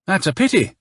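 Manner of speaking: high, pleased-sounding pity; lilting, insincere sympathy; pleased false regret. A narrator's reading. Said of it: "he sounded positively pleased".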